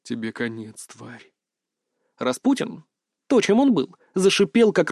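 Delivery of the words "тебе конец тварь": menacing monster voice. Acted. Monster threatens hero.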